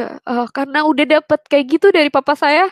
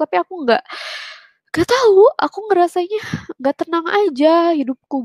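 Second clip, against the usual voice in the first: higher-pitched, mildly plaintive retelling; retold troubled confession; 6 semitones higher than usual. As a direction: imitate confiding unease to mother, pitched up. (menirukan curhat gelisah dengan nada tinggi)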